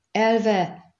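high, loud yell; roared command. A narrator's reading. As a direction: bellow it as an urgent order. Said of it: "üvöltötte Rienz".

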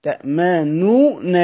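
تأمنون said slowly, ending on a falling closed nun; slow repeated citation; slow demo. Shown as a demonstration. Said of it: "هي أصلها إيه؟".

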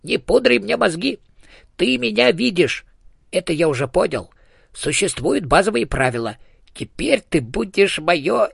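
a tiny ghost trying to sound in charge; bossy hamster ghost. A narrator's reading. Dead hamster bossing the elephant, high and pushy.

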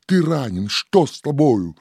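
high, anxious questioning; tearful trembling. A narrator's reading. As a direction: fret over a wounded loved one. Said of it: "в слезах трепеща говорит".

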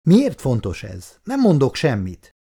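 understated cry of refusal; mild shout. Acted. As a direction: call it out defiantly, without full volume. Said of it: "kiáltotta". (visszafogottan kiáltva)

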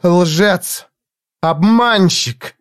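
rising fury, slow on Обманщик; accusing. A narrator's reading. Jiz hurls insults at Foyle, rising fury. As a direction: spit each insult out. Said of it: "горящими глазами".

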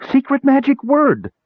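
very high squeaky battle cry; shrieked. A narrator's reading. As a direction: shriek the spell like a fierce tiny creature. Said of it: "she shrieked".

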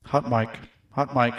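mic test at full level; full-voice mic check. Shown as a demonstration. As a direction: say it out at normal strength to test the mic. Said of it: "mic check, testing levels".

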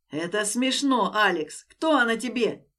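loud, slow, bitter; nervous spitting. Acted. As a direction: spit it out nervously. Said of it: "нервно выплюнул он".

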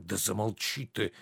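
softened, hushed telling-off; quiet rebuke. Acted. Husband hushing his wife in front of a guest, quiet rebuke. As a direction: keep the order under your voice. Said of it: "Журден тихо".

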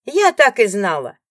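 loud, slow, gloating cry; triumphant shout. Acted. Rival barging in, gloating loudly at the ex-wife. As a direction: crow it like you caught her.

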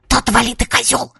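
soft, spiteful hiss; angry hiss. A narrator's reading. Girl hissing at the boy tickling her. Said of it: "злобно зашипела".

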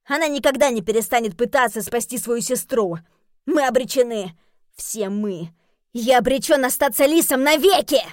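loud, rising despairing rant; Jeremy loudly bemoans staying a fox; despairing outburst. Acted.

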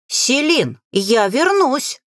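high, drawn-out mock call. A narrator's reading. Mage to Селин while dragged to the boat, calling out. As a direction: narrate a distant call without real volume. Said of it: "прокричал маг".

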